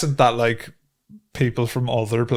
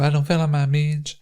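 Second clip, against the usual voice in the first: slightly raised mock Hopkinsville accent; playful Hopkinsville callback; 4 semitones higher than usual. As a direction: toss out the Hopkinsville catchphrase. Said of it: "speak in the Hopkinsville accent".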